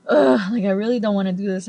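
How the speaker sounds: loud groaning ugh, dreading the meeting; reluctant groan. Retold or imitated. Star groaning to the fan about his meeting, loud and reluctant. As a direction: groan it out like you'd rather skip work. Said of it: "he looks at me kinda like".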